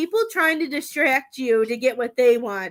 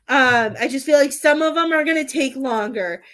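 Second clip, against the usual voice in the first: holding back tears; 4 dB louder than usual. Real, not acted. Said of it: "trying not to, like, sit here and bawl my eyes out".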